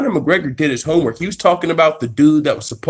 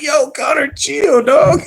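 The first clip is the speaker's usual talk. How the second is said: high, loud pleading disbelief; incredulous; 13 semitones higher, 3 dB louder, slower than usual. Retold or imitated. Vlogger reacting to McGregor's threat, incredulous. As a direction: tell Conor to calm down, laughing. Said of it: "And I'm like".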